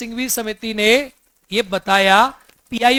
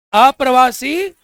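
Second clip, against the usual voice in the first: slow drawn-out word; slower than usual. Shown as a demonstration. Teacher to class, drawing out अप्रवासी slowly. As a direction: stretch अप्रवासी out slowly, syllable by syllable. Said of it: "जोर से बोलो".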